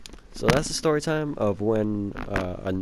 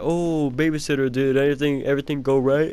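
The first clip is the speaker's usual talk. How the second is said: higher, put-on parental check-in; imitated concerned parents; 3 semitones higher, 3 dB louder than usual. Parents come home and ask the babysitter, mock eager. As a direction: play parents asking after their baby.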